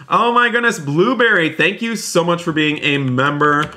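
high-pitched, delighted exclamation; excited thanks. Real, not acted. Streamer thanking a long-time channel member, excited. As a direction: burst out high with happy surprise.

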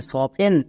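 সফটেন read as "sofen", t silent; correct pronunciation. Shown as a demonstration. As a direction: blend the letters into সফটেন without the t. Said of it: "তাহলে একসঙ্গে উচ্চারণ করো". (টি বাদ দিয়ে সফটেন উচ্চারণ)

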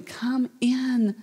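soft pleading call to come inside; a father begging quietly at the door; begging softly. Acted. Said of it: "Can you hear the father saying".

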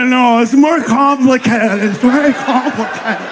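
slow, fussy hedging; mock hesitant American. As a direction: drag it out like a worried know-it-all. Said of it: "All the Americans are like".

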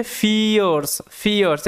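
"ফিয়ার্স" said twice as fee-ers; pronunciation demo. Shown as a demonstration. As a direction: stretch the ee in "ফিয়ার্স". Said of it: "এটার উচ্চারণটা হচ্ছে".

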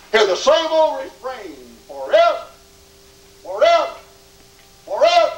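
high, ringing cry on each word; an endless refrain, pitched high; preached refrain. Acted. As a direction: call out each word alone with a pause after it. Preacher voices hell's endless refrain.

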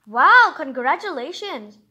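loud happy congratulations; excited cheer. Acted. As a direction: cheer her on, bright and loud. Cheering the cockroach on.

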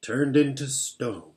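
slow, with a mild shudder of dread; understated fearful beaver; shuddering pause. Acted. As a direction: let the horror sink in slowly. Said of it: "he paused and shuddered".

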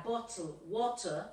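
"bottle" with a British o, "water" with a dropped r; british pronunciation. Shown as a demonstration. Teacher modelling British vowels for the class. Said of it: "hacerlo más British".

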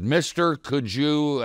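a high, pleading beggar's voice, pitched well up; begging homeless man. Retold or imitated. Homeless man begging the preacher on the street, high and pleading. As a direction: ask for change, hopeful and high.

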